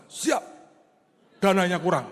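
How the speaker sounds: answering the pastor like a subordinate; dutiful young officer. Retold or imitated. Brimob officer reporting his studies to pastor, lightly voiced and respectful. Officer admits lacking funds.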